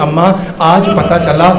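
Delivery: acted weeping reproach; tearful retold lament. Daughter tearfully reproaching her mother, imitated lament. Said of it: "رو رو کے کہتی".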